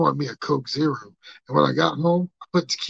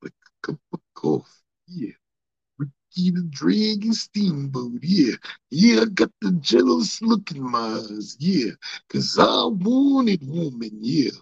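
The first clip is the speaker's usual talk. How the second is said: Macho Man promo voice. Acted. Cutting a promo to his viewers in a lightly put-on wrestler voice.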